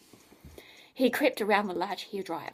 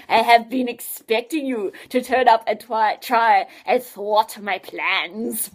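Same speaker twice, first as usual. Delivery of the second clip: gloating mad scientist; 7 dB louder, slower than usual. Acted.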